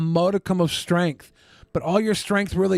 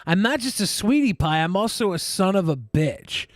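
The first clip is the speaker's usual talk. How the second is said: put-on whiny kid voice; 5 semitones higher, slower than usual. Mocking the guest's sweetie pie line.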